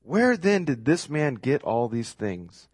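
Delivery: slow, drawn-out scoffing question; mocking, incredulous crowd; sarcastic. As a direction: stretch it out in disbelief. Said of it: "Can you hear the sarcasm here?".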